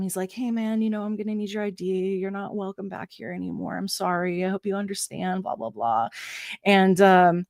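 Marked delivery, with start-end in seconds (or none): 0.3-6.1 nice and gentle. Retold or imitated. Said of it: "being really nice to him".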